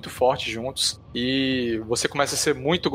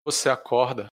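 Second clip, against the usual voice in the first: story narration; slower than usual. Acted. Game master sets the dark scene.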